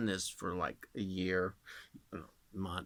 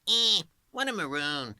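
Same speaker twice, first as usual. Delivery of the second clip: Bugs Bunny; 6 semitones higher, 6 dB louder than usual. Retold or imitated. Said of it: "like Bugs Bunny".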